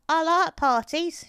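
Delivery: put-on slow, high, loud old lady; June. A narrator's reading. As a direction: pipe up slowly as a toothless old woman. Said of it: "she said".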